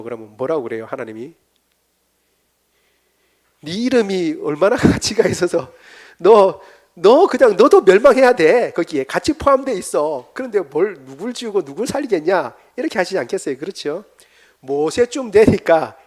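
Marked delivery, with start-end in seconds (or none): 3.6-12.5 stern rebuke. Acted. God rebukes Moses.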